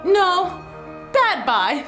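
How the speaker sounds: ordinary delivery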